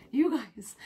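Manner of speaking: "you guys" whispered, no voice. Real, not acted. Vlogger leaning in to viewers, whispering "you guys". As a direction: breathe "you guys" as a secret.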